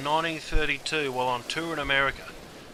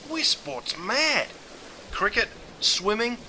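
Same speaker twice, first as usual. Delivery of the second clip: proud boast; 8 semitones higher, slower than usual. Acted.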